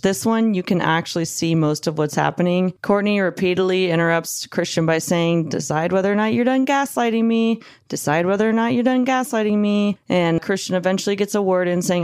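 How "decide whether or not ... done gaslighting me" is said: higher, arching pitch, same tune repeated; mock insistent demand. Narrator imitating the girlfriend interrupting him, insistent. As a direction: imitate someone repeatedly cutting in.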